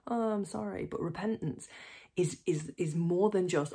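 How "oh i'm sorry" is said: flippant sorry. Retold or imitated. Mock flippant apology.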